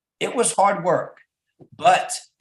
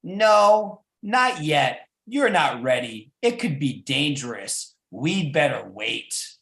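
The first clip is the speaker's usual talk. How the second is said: loving. Acted. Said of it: "with great love".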